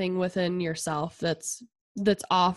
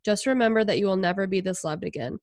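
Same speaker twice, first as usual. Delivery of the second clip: reading a quote aloud. Real, not acted. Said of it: "It says".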